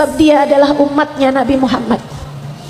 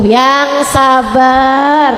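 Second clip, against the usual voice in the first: very long, drawn-out consolation; patient soothing; much slower than usual. Acted. Ustazah answering wife of fierce husband, slow soothing. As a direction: draw it right out, patiently. Soothing reply to complaining women.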